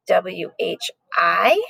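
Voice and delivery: spelling out W H I letter by letter, slowly; slow spelled-out letters. Shown as a demonstration. Teacher spelling "W H I" slowly for second graders. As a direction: say "W H I" one letter at a time. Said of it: "check it out".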